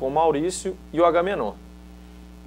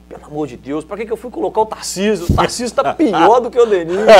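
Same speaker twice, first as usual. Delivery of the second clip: imitating a fuming coach, getting louder; exasperated retold rant, rising to the end; mock cursing; 6 semitones higher, 6 dB louder than usual. Coach regretting the sub on the touchline, mock angry rant. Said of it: "E xingando".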